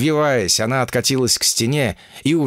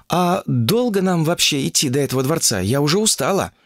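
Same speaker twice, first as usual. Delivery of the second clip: whiny; 5 semitones higher than usual. Acted. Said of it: "закапризничала".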